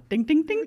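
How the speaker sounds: little repeated dings; sing-song ding sound effect; imitated dinging.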